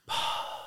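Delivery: demonstrated puff of breath; acted-out long exhale. Hunter showing how they watched their breath in the cold, breathing out. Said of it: "I would breathe out".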